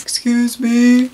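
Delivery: slow, careful little bear asking for help; polite little bear. Acted. Little bear politely asking the seals for help, slow and careful. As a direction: ask sweetly and slowly. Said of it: "So he asks".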